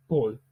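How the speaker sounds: "Paul" short, firm and falling; answering stress. Shown as a demonstration. Teacher answering his own "Qui?", stress on "Paul". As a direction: land "Paul" as a one-word answer.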